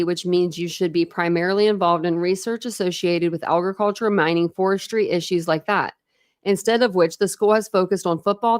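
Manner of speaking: steady, projected read-aloud voice. A narrator's reading. Reading a book to listeners, steady read-aloud narration.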